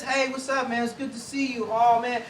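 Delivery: affirming greeting. Shown as a demonstration. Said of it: "our words sound like this".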